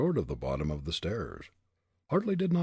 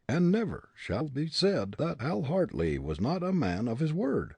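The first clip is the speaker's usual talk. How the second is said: put-on higher, defiant young prisoner; defiant young man; 10 semitones higher, 3 dB louder than usual. A narrator's reading. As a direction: throw back the accusation. Hartley voiced.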